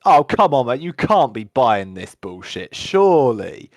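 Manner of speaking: loud, scoffing guard calling it bullshit; gruff guard. Acted.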